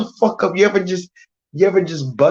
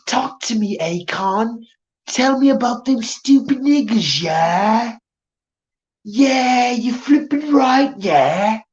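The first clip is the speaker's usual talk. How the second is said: put-on a light, higher-pitched British accent, jeering; mock British accent; 4 semitones higher than usual. Streamer taunting a British guest, in a mock British accent. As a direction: needle her in her own British accent. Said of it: "where did I hear this stupid ass accent".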